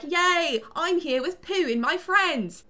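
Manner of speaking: high, slow, drawn-out cheer; hammed-up happy little kid; childish glee. Grown Christopher playing in the forest with Pooh, mock glee. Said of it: "running around being like".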